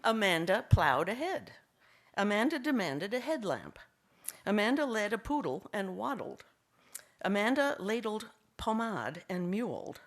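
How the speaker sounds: measured comic verse, line by line; deadpan poetry reading. Acted. Poet reads anagram poem about her daughter, measured delivery. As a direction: set out each line with a pause after it.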